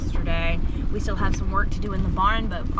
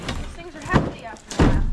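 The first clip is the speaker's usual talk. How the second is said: raised for hearing; louder repeat; 8 semitones higher than usual. Real, not acted. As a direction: say it up louder so they hear.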